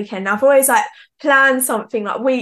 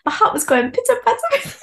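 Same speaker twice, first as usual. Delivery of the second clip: nervous flutter; 11 semitones higher than usual. Retold or imitated. Retells her nerves while busking.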